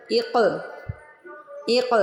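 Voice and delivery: اق with the قاف bounced, very slow and drawn out; slow teacher demo of اق with a bouncing qaf; qalqalah on qaf. Shown as a demonstration. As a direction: let the qaf in اق echo with a stretched bounce. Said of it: "قاف کو ہلانا ہے".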